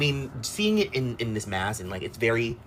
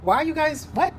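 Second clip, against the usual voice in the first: high, loud, disbelieving; mock confused outsider; baffled question; 6 dB louder than usual. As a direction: ask it like you can't believe it. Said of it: "they are like".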